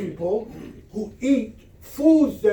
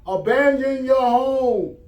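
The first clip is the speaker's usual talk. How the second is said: calling out to a neighbor; 5 semitones higher than usual. Acted. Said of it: "And he called out".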